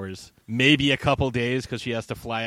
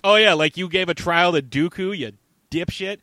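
mocking retort, high and loud at the start; acted scornful jab; sarcastic comeback; 5 semitones higher, 6 dB louder than usual.

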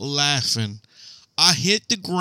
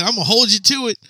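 mock taunting promise; 8 semitones higher, faster than usual. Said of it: "He said".

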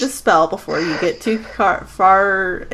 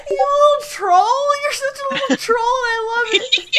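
laughing delight. Real, not acted. GM delighted at player prank.

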